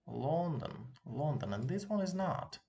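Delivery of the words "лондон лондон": LONDON with a clear o in the stressed first syllable; higher LONDON, Russian "LON-dan". Shown as a demonstration. Teacher explaining the stressed letter, round o in LONDON. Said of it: "so we pronounce it as o".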